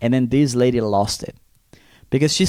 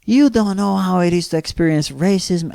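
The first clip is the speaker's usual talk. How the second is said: imitating the lady; 6 semitones higher than usual. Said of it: "she goes like".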